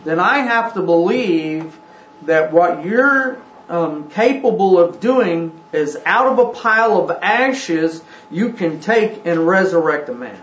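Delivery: earnest, searching Abraham, lightly voiced; preacher putting words in Abraham's mouth; voicing Abraham. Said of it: "and Abraham saying".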